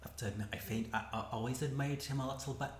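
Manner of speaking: put-on light Scottish accent for Scotty, quick start; a hint of a Scottish brogue; lightly put-on Scottish accent. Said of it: "Oh, that's such a good accent".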